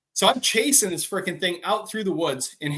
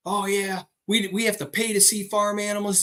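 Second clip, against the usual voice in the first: higher-pitched wide-eyed city visitor; awed visitor; 5 semitones higher than usual. Retold or imitated. Brother's California buddy marvels at farm animals, awed. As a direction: imitate an amazed farm newcomer. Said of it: "he was freaking out 'cause he's from California".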